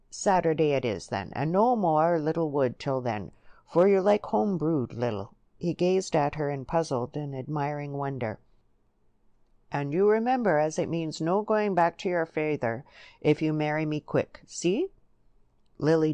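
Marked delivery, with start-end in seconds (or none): 0.1-5.3 lightly voiced country suitor, louder; rustic Joe, eager. Joe fixes the wedding day with Lily, eager rustic voice. 9.7-14.9 lightly voiced country suitor, insistent; rustic Joe, insistent. Joe warns Lily about her father, insistent rustic voice.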